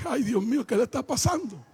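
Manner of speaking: retold dismay. Husband puzzled by his wife's changes, retold dismay. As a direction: wonder aloud to yourself, low.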